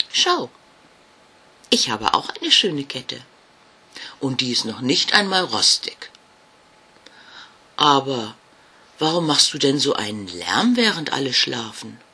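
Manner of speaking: lightly voiced, bright-eyed girl ghost; a cheerful child showing off her chain; cheerful little ghost girl. Jasmina shows the ghost her chain, cheerful.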